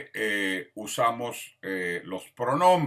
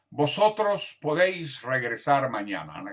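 Spain Spanish; 4 semitones higher, 3 dB louder than usual. Shown as a demonstration. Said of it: "lenguaje muy común en España".

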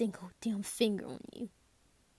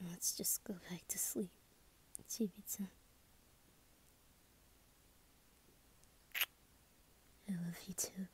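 tender goodnight; 12 dB quieter than usual. Acted. Sending Chibi-chan back to sleep after a nightmare, soft and tender. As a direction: murmur it gently, winding down for sleep.

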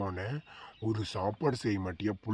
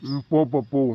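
shooing shout; 4 semitones higher, 9 dB louder than usual. Acted. Father shooing son amid quarrel.

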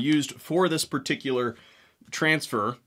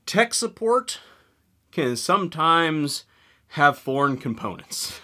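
coy hint; slower than usual. Acted. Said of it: "How do I say this without getting flagged".

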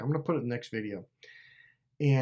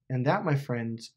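ordinary delivery

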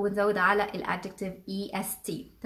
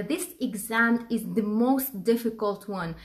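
slow model sentence; much slower than usual. Shown as a demonstration. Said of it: "مثلًا".

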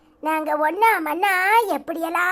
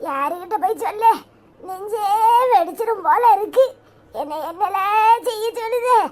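mock lament. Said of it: "இப்படி காலங்கத்தால ஒப்பாரி வைக்க".

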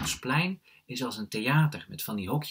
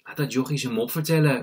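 raised-voice call; 4 semitones higher, 8 dB louder than usual. A narrator's reading. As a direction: call it across, louder and higher. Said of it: "roept Rashida".

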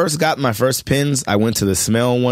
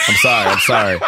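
quick apology; 4 dB louder than usual. Retold or imitated. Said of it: "I was like".

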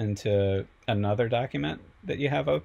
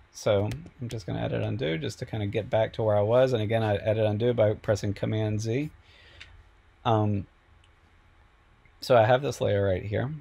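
slightly hoarse, a little sick; sick voice, losing it a bit. Real, not acted. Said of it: "I might be losing my voice a little bit".

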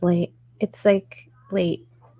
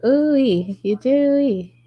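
high squeaky ooh-wee, pitched up; silly sing-song; 6 semitones higher, 4 dB louder, slower than usual. Real, not acted. Streamer reacting to chat in a goofy high voice. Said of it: "I don't know why I said it like that".

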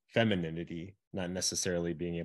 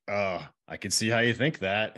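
condescending; 2 semitones higher, 5 dB louder than usual. Shown as a demonstration. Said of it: "if I say it very condescending".

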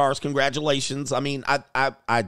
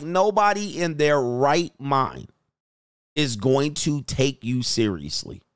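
slow, blunt verdict; a frank man telling a woman the hard truth; straight-up honesty; slower than usual. Retold or imitated. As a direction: lay it out slowly with no sugarcoating. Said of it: "I told her this straight up".

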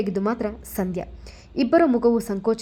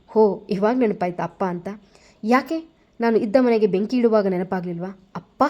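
sarcastic. Acted. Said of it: "ವ್ಯಂಗ್ಯವಾಗಿ ನುಡಿದು".

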